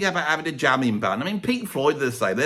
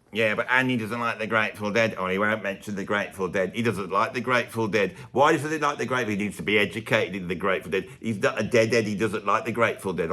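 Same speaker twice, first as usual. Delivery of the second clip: lower, laid-back American fan voice; mock American fan accent; 5 semitones lower than usual. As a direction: play a spaced-out American fan of a band. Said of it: "I'm doing it in an English accent".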